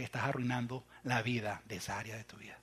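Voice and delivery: hushed, voiceless aside to the congregation; whisper. Real, not acted. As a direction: drop to a whisper. Susurro en sermón.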